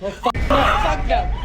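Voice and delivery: real frightened yell; terrified outburst. Real, not acted. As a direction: shout it as you bolt. Bolts from sudden fright.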